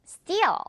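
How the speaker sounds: Steal starting high, long falling vowel; drawn-out steal. Shown as a demonstration. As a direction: drag Steal out with a tight t. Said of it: "발음 좀 길게 끌어주세요".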